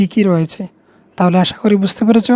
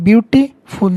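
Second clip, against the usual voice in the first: slowed for syllables; 3 semitones higher, much slower than usual. Shown as a demonstration. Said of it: "বিউটি, তারপর হচ্ছে ফুল".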